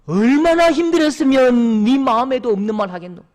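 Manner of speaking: put-on mother's tearful plea to her drunk son; mother embracing. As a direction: hold him and plead for understanding. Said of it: "안으면서 하는 말이".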